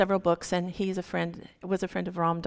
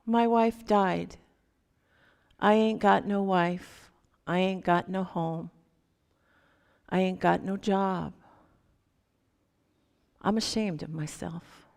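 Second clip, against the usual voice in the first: ashamed, near tears. Retold or imitated. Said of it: "And he started to sob".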